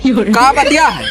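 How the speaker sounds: put-on slow, slurring drunk; town drunk. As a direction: drag the words like a drunk. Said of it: "अरे तू बेवड़ाऊ".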